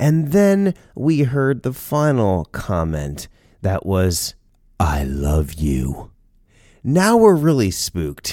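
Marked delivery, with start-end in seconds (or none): 4.8-6.1 very low, deep, hushed voice. Speaker retells a final comment heard from a voice behind a door, deep voice. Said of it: "from the deep voice".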